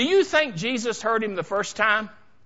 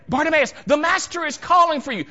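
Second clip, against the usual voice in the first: high, loud announcement; excited summons; 8 semitones higher, 6 dB louder than usual. Acted. Crowd tells the beggar Jesus wants him, loud excited summons. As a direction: call it out with urgency.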